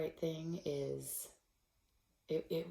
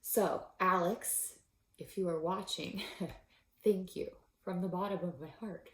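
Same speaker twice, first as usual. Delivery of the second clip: choked up. Real, not acted. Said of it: "I would get choked up".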